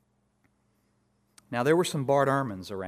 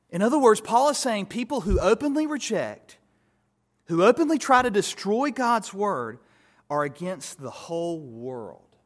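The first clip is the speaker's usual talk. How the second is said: much higher and much louder, driving the point home; preaching at full force; 6 semitones higher, 6 dB louder than usual. Real, not acted. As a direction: build to a fiery pulpit climax. Preacher rising to a climax.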